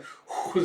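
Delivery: voiceless whew of breath; deep exhale. Retold or imitated. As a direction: let out a long breath. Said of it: "he lets out a deep breath".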